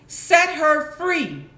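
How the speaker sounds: slow, commanding pirate shout; Captain Hook voice. Acted. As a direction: bark the order like a pirate captain. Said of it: "In a voice that sounded just like Captain Hook's, he shouted".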